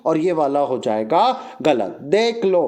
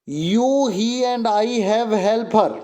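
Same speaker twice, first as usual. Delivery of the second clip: slow dictation; much slower than usual. Shown as a demonstration. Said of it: "देखो ध्यान से".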